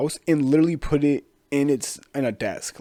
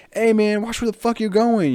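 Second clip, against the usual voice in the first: high, louder mock snap; annoyed yell; 11 semitones higher, 6 dB louder than usual. Pedestrian shouting at the bird that bumped him, high mock anger. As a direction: tell the bird off, pitched up.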